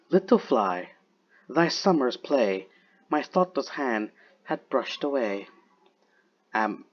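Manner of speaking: slow, measured verse recital; unhurried poetry recitation with long pauses; poem reading. Acted. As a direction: read the verse slowly, pausing between phrases. Reads Blake's poem aloud.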